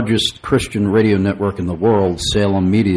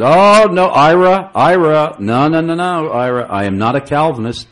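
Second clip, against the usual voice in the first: flustered denial; 7 semitones higher, 3 dB louder than usual. Retold or imitated. Pastor flustered denying to Ira.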